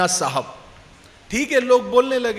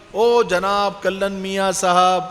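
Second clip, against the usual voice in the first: drawn-out honorific call; slower than usual. Retold or imitated.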